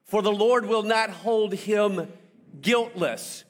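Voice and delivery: slow, weighty reading of the commandment; scripture reading. Acted. Preacher reads commandment to congregation, slow and solemn. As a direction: read it like holy law.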